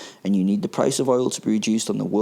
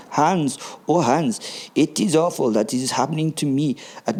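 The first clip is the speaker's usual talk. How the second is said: put-on camp German accent; 3 semitones higher than usual. Gruber complaining to Hans about his slaves, camp German accent. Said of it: "with a thick but very camp German accent says".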